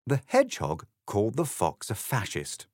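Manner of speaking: plain reading voice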